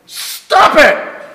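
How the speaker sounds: sudden high mock yell at the kids; a parent losing it on a Sunday morning; yelling stop. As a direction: snap it out like a frazzled parent.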